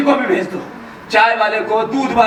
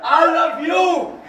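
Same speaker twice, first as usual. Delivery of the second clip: put-on drawn-out drunken cry; 3 semitones higher, much slower than usual.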